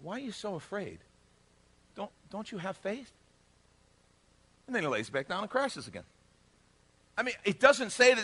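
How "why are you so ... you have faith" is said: soft, drowsy questioning; mock just-woken murmur; a little sleepy. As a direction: ask quietly, as if half awake. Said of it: "still a little sleepy".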